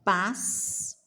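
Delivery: pas, sa, gem with long gaps; syllable by syllable. Shown as a demonstration. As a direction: break "Passagem" into slow, separate syllables. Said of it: "Separamos assim".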